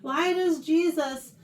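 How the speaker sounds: mildly frustrated complaint; slow, put-upon questioning; frustrated, upset. Acted. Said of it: "I'm sure he's frustrated. He's upset".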